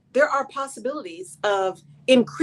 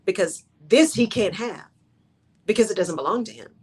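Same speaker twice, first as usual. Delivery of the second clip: calm; 2 semitones lower than usual. Retold or imitated. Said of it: "And he is so calm".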